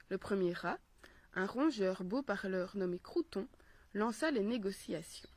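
measured, carefully paced storytelling; story narration. A narrator's reading. Mother reading a philosophical tale for children, storytelling voice. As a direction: read the fable aloud phrase by phrase.

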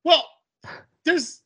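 high, halting explanation; hesitant explaining to mom. Retold or imitated. Son retelling his awkward explanation to mom, hesitant. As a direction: stall on a high pitch before explaining. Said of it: "I definitely didn't say it like this".

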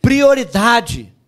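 loud, slow prioridade again; second call of prioridade; echoing call; shouted repeat. Shown as a demonstration. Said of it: "fala comigo assim".

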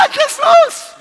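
very high, hammed-up desperate shout; desperate cry. Shown as a demonstration. Preacher coaching an actor playing the desperate woman, shouted cry. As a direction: scream it out in mock despair. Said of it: "você tá desesperada".

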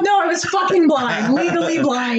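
indignant. Real, not acted.

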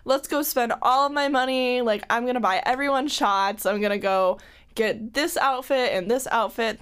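giddy, reckless party voice; manic excitement. Retold or imitated. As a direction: hype yourself up, impulsive. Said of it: "I'm like".

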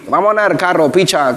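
imitated Cádiz speech, r in place of l; Cádiz accent. Guest showing how people in Cádiz talk, imitated Cádiz accent. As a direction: try a Cádiz accent on a quote. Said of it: "Hablan como".

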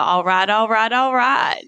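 drawled Texas "all right"; lazy Texan drawl, laid back; McConaughey impression. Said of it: "trying to be Matthew McConaughey".

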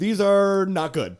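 slow, high, loud whine; mock complaint. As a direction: complain slowly about the food. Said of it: "he would say".

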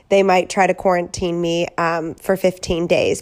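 stuffy, sick-sounding voice; head cold voice. Real, not acted. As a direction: talk through a head cold. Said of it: "sexy-ish, sick voice".

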